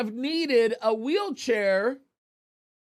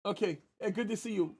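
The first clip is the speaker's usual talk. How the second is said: much softer aside off-mic; quiet aside; 10 dB quieter than usual. Real, not acted. Host murmurs hello to wife, much softer. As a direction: drop your voice for a private hello.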